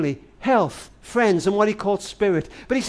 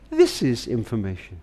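operator voice; 9 semitones lower, 5 dB quieter than usual. Retold or imitated. The operator answers the call.

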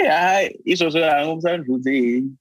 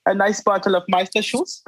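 put-on German accent; 5 semitones higher than usual. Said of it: "sound like this".

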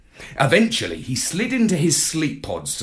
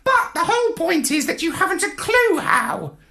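high, cutting parrot retort; smug parrot. A narrator's reading. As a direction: score the point, parrot-style.

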